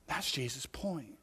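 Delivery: slow, hushed whisper. Real, not acted. Preacher driving home Jesus's point to the congregation, whispered. Quiet summing up.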